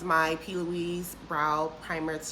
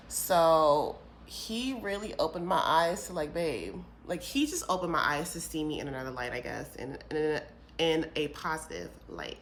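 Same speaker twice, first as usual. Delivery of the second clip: talking around clear aligners; wearing aligners. Real, not acted. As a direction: speak with aligners in your mouth. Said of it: "These aligners are so annoying".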